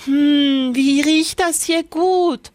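put-on high, curious girl sniffing; Lisbeth. A narrator's reading. Lisbeth smells the cooking, high and curious. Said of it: "sagte Lisbeth".

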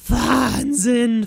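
loud high awed exclamation; cheeky boy gasps in wonder; hissed amazement. Acted. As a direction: blurt it out in awe. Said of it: "fauchte der freche Fred".

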